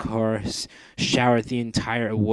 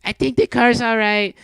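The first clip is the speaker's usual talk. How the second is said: much higher, louder relieved call; cried out; 12 semitones higher, 8 dB louder than usual. Acted. Mandy calling to Wilson about the car, high and loud. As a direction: call out the good news. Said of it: "cried Mandy".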